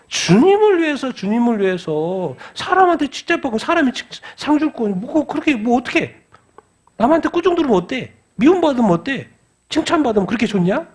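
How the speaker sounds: high-pitched, insistent exhortation; fervent preaching. Real, not acted. Preacher challenging those seeking people's praise, fervent exhortation.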